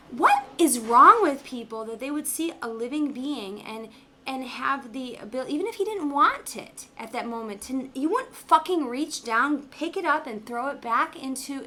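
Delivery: retold angry rant. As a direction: rant at him as you retell it, mildly heated. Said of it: "I'm so pissed".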